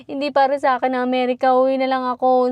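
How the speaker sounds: mock the despair of a crying beginner driver; tearful complaint. Woman recalling crying to her husband about driving. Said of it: "iyak ako ng iyak".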